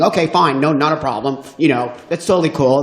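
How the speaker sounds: loud, huffy pretend nonchalance; hurt pride covered with breeziness; huffy fake casual. The comic packing his bag to leave, huffy and fake-casual. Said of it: "totally saying this as I'm putting all my shit in my bag".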